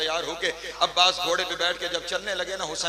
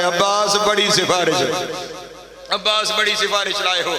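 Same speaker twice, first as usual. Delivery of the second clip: louder emphatic repeat; 3 dB louder than usual. Shown as a demonstration. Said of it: "पहाड़ जितना जुमला है".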